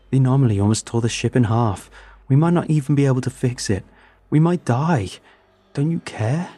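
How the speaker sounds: shouting. Acted. Confronting Jacobs about dying.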